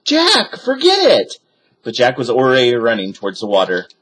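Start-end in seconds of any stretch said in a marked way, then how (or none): 0.0-1.4 high, loud cry to stop him; Annie shouting. A narrator's reading. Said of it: "Annie shouted".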